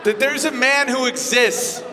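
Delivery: normal talking voice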